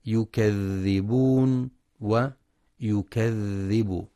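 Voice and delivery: ويكذبون ويكذب with ذ flowing, not stopped, slowly; soft dhal. Shown as a demonstration. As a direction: let the ذ in يكذبون run smoothly. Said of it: "لرخاوة الذال". (رخاوة الذال)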